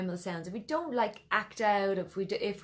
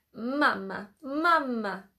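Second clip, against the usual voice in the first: put-on emphatic, drawn-out child voice with Italian accent; 4 semitones higher than usual. Demonstrating an exercise to the listener, like an emphatic Italian child calling mama. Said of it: "pretending that you're like an Italian child".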